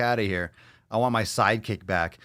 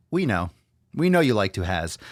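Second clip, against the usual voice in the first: put-on broken-English accent. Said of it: "With that accent".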